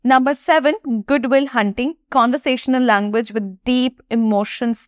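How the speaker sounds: slow, deliberate list of movie titles; slow list read. Shown as a demonstration. Teacher reads her recommended movie list to students, slow and measured. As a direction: present each title calmly, one by one.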